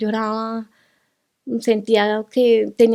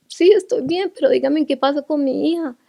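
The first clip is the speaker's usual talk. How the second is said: urgent pleading; 4 semitones higher, 4 dB louder than usual. Retold or imitated. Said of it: "Y yo les decía".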